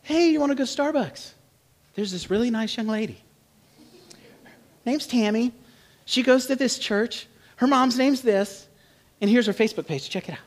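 lightly voiced eager mom; pushy matchmaking mom. Mom pushing her son toward a blind date, eager. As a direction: sell the date like a pushy mother. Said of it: "mom's ready for you to be married".

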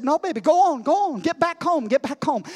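a touch of an impatient lady shooing; shooing the dog. Retold or imitated. Old lady to her dog, getting firmer. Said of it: "she turned around and said".

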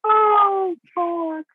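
high, loud laugh-cry; breaking up with laughter; real laughing fit. Real, not acted. Laughing fit after joke.

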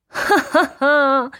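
high, loud acted ha-ha; baroness's mocking laugh. A narrator's reading. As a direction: laugh scornfully at the cheap price. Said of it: "zaśmiała się baronowa". (szyderczy śmiech baronowej)

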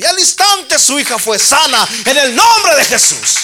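loud, high fervent proclaiming; full-force preaching. Acted. Preacher proclaiming the healing to the church, loud and high.

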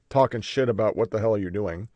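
slurping a drink while talking; words around a sip from a straw; sipping through a straw. Real, not acted. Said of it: "Sorry for slurping".

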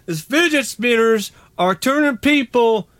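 high, hammed-up Southern redneck drawl; redneck accent. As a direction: play an overexcited hick. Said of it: "your redneck accent is improving".

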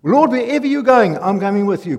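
loud, high call to the Lord, easing slightly after; fervent morning prayer. Retold or imitated. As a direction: call out boldly to God. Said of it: "the first thing I do is say".

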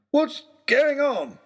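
high, loud, slow indignant demand. Acted. Lord Daunt confronting Oxshott on the roof, indignant. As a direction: draw it out, outraged. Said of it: "demanded Lord Daunt".

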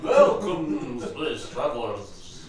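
slow, stretched hissing S's; hissing snake voice. Acted. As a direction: hiss every S like a snake. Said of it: "when you do a snake and they do all the S's".

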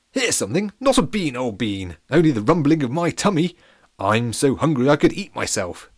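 high, loud posh pancake voice; jolly posh captain, pitched well up. Acted. Captain thanks the pirate, high and posh.

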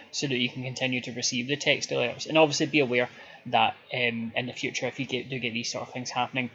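low, polite call centre agent putting on the script. Pretend. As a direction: play a customer service rep explaining a refund policy. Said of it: "when you do your call centre voice".

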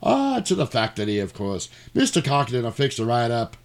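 light Irish motel-keeper voice; hammed-up Irish lilt; Irish accent. Irish motel guy reassuring the doctor, Irish accent. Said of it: "And the Irish motel guy's there".

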